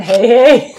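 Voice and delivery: loud, high blurt; loud, high-pitched slip of the tongue; blurted mock word. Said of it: "No, I almost went".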